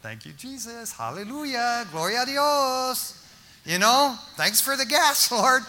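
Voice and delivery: hushed "Thank you, Jesus" rising into glad praise; joyful praise. Retold or imitated. Preacher imagines thanking God for free gas, rising praise. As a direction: breathe the thanks, then lift it up to the Lord. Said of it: "what would have been your first thought".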